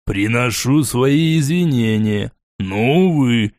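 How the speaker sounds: slow, sneering apology; mock politeness, dragging it out. Borey mocking Lona with a fake apology, slow and sneering. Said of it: "с откровенными издевательскими нотками".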